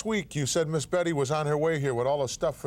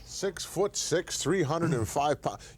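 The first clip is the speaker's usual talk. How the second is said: slow emphatic repeat; 4 semitones higher, slower than usual. Real, not acted. Slowly repeating Jack's claimed size.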